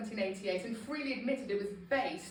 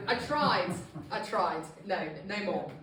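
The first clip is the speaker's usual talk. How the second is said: mock giving up; 4 dB louder than usual. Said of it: "I'm definitely within the twenty-three percent who say".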